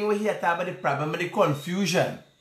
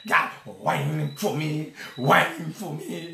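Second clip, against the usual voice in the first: slow mock lament; 3 semitones lower, 4 dB quieter, slower than usual. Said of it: "I reckon I said".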